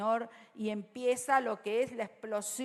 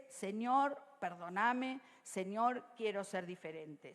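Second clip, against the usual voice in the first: oración suave; 4 semitones lower, 5 dB quieter than usual. Shown as a demonstration. Oración modelo dicha suave.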